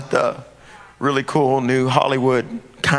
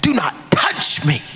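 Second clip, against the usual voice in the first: 1 whispered command; 5 semitones higher, slower than usual. Acted. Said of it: "he screamed out".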